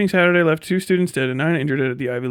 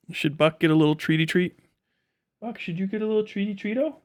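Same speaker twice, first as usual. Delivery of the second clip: pet talk; 5 semitones higher than usual. Real, not acted. Teasing the dog with treats.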